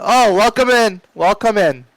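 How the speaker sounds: high, loud call of welcome; hearty shout to an arriving visitor; yelling out. Acted. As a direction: yell them in from across the office. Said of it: "Bragg just yells out".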